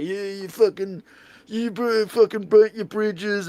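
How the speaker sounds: imitating a yell. Boss at the booth yelling at the interviewer, mock angry rant. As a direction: ham up the boss's red-faced rant. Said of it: "like, yelling at me".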